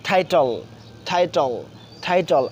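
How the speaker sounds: "টাইটেল" with the first T puffed as ঠ; correct aspirated T. Shown as a demonstration. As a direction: model "টাইটেল" slowly separated, opening on aspirated ঠ. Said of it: "সঠিক উচ্চারণ হচ্ছে".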